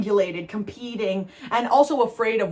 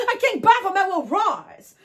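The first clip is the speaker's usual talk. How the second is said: imitating the video guy; 9 semitones higher than usual.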